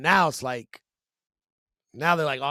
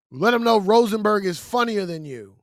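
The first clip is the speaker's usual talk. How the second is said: loud, higher mock heckle; imitated heckler yell; 4 semitones higher, 7 dB louder than usual. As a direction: shout it at the stage like a heckler. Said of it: "The guy yells out".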